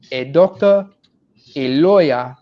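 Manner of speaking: put-on loud West African parent accent; a strict immigrant parent in a West African accent. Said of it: "I have to do this in a West African accent".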